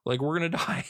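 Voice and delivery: high-pitched incredulous retort, imitated; mock incredulous protest. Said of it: "but he's like".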